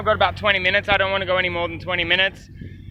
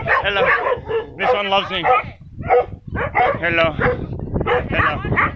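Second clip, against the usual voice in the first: much higher, sweet greeting to the dogs; high pet voice; slower than usual. Real, not acted. Greeting the friendly dog, high cooing pet voice. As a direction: coo hello way up high.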